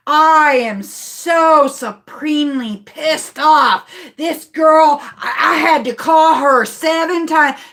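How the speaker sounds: drawn-out, indignant retold complaint; mock angry passenger. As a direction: imitate a fed-up passenger griping on the phone. Acting angry passenger on phone.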